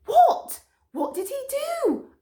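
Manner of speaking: high loud burst; high surprised dogs. A narrator's reading. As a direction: blurt out shocked questions. Mutt and Stripes ask.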